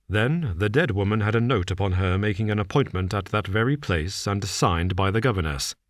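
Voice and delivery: a hint of a cool, measured detective. Holmes lays out the case to Watson, calm and measured.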